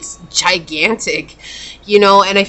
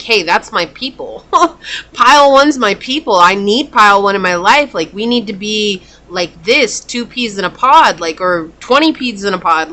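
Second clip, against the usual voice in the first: excited new friends; 4 dB louder than usual. Retold or imitated. Voicing people who get pile one.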